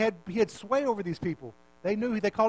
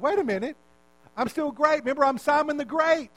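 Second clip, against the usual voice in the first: higher, louder mock-indignant objection; indignant protest; 8 semitones higher, 5 dB louder than usual. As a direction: protest loudly as a wounded show-off. Acting out Simon's indignant protest.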